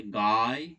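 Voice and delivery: গায় said with an audible "aay" glide; aay sound demonstrated. Shown as a demonstration. Teacher showing the sound inside a word, গায় pronounced with "aay". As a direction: sound out গায়, open "aa" gliding into "y". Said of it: "উচ্চারণে আয় উচ্চারিত হচ্ছে".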